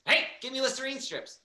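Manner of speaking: playful imitation of a robber's demand; lightly hammed-up mugger; mock mugger demand. Imagined mugger demanding mints.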